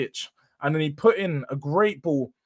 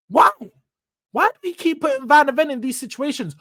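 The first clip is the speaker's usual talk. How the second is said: pitched higher, pleading in disbelief; exasperated why; 6 semitones higher, 3 dB louder than usual. Real, not acted. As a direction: demand an answer, fed up. Fan frustrated at repeated mistake.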